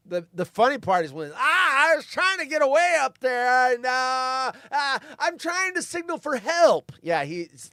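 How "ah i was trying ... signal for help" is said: high, loud hammed-up American act; over-enunciated American accent impression. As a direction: overdo every word like a bad fake American. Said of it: "like, over-enunciating".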